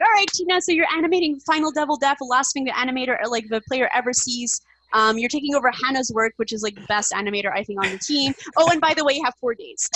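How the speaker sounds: breezy boss dropping bad news; imitating boss. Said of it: "Chad's like".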